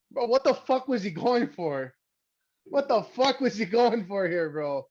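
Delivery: high, disbelieving protest; incredulous rant. Real, not acted. Podcaster baffled by the wrestler's move, high incredulous protest. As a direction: demand to know what he was thinking.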